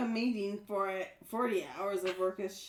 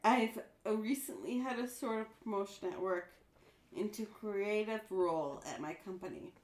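slurred, tipsy reading; 3 semitones lower, 4 dB quieter than usual. Real, not acted. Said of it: "you are missing words, and you're so drunk".

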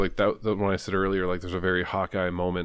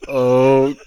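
deadpan okay; 5 semitones higher, 10 dB louder than usual. Retold or imitated. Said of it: "she just goes".

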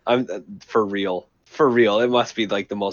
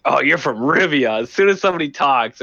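higher, louder imitation of fed-up locals; mock annoyed; 5 semitones higher, 4 dB louder than usual. Locals reacting to the stranger's accent, mock annoyed. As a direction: act out exasperation at someone's accent. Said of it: "would just piss everybody off".

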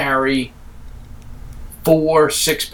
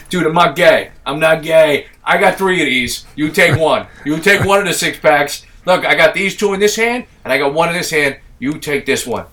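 put-on dude voice; 3 dB louder than usual. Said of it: "He didn't sound anything like this".

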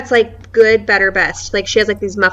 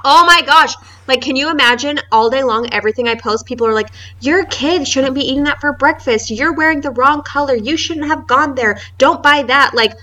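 exasperated rant; 4 semitones higher than usual. Retold or imitated. To the cohost about nagging followers, high exasperated rant. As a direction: vent it, pitched up and fed up. Ranting about unsolicited commenters.

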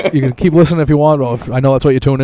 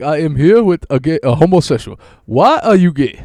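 slightly louder, deadpan mock interviewer; imitating the interviewer; 3 semitones higher, 4 dB louder than usual. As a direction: quote the interviewer's blunt question. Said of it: "He's like".

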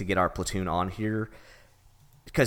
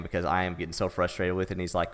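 ordinary delivery

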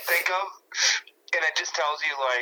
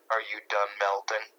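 deadpan; 3 semitones lower than usual. Pretend. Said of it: "just totally deadpan and serious".

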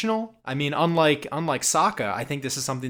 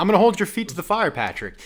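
teasing challenge; 5 semitones higher, 3 dB louder, faster than usual. Real, not acted. Playfully putting co-host on spot.

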